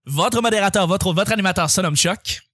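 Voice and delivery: upbeat, fast announcer opening with a sung greeting; show intro. Acted. Host Chuck opening the show for listeners, announcer voice. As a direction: welcome the listeners like a radio host.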